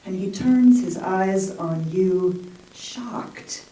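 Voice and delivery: measured recital, lifting lines then settling; poem reading. Acted. Poet reading her Picasso poem to the audience, measured recital. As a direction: read the poem with slow weight on the images. Reads own poem aloud.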